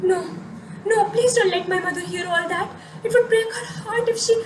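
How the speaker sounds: half-laughing, half-crying plea; beg, voice cracking with tears; pleading through tears. Acted. Pleading with the mocking voice.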